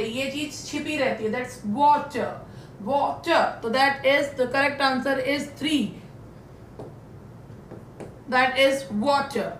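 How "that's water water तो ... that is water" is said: water said very slowly with the r silent; slow model pronunciation. Shown as a demonstration. Teacher drills water slowly for her class. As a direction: linger on water and swallow the r. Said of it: "आर नहीं बोलते".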